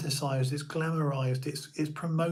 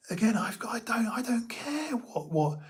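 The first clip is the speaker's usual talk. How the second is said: whispering; 8 semitones higher than usual. Real, not acted. Aside in a hushed voice.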